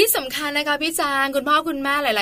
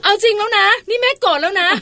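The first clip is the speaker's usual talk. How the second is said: mock angry mom; 7 semitones higher, 6 dB louder than usual. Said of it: "ก็พี่ปลาเป็นแบบนี้อะ".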